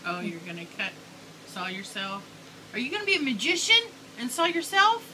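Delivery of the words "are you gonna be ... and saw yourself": playful excitement. Real, not acted. Playful question to child.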